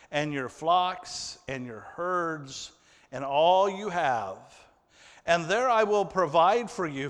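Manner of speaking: measured Bible reading from the pulpit; solemn read-aloud scripture. Acted. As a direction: read the verse with weight. Reading Joseph's words from Genesis.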